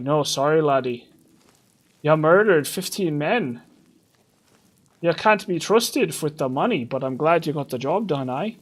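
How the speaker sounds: lightly voiced Scottish brogue, rolling laddie; a hint of a canny Scottish thief; mild Scottish accent, teasing the player; Brynjolf's Scottish brogue. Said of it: "That's what he sounds like".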